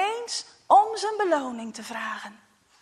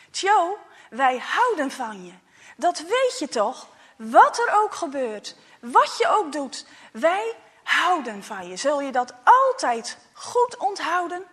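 loving father; 3 semitones higher, 6 dB louder than usual. Acted. Father reassures his son.

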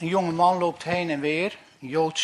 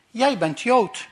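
stern officer; 5 semitones higher, 5 dB louder, slower than usual. Acted. Officer accuses Jew.

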